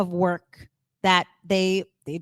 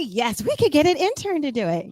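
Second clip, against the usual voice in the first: reformed enthusiasm; 6 semitones higher, 3 dB louder than usual. Shown as a demonstration. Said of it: "I reformed".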